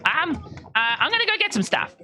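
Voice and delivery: high, bubbly offer; generous and excited; eager Belbic. Acted.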